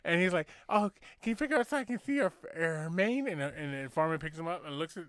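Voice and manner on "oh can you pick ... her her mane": higher, put-on impeded speech; a dreamy little man with a speech impediment. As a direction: joke teller voicing the little man admiring the horse. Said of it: "he's got a fucking speech impediment".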